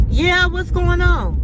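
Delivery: loud, slowed call into the intercom; an impatient shout down to the door. Retold or imitated. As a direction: call out to him, wary. Answering the doorbell intercom.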